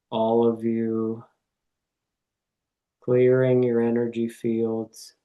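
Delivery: calm meditation voice with long pauses; guided meditation. Real, not acted. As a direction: guide listeners gently, one phrase at a time.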